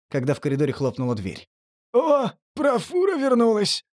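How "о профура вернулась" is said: high, happy cry; joyful shout. Acted. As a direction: shout it out gleefully. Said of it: "радостно скрикнул татуированный".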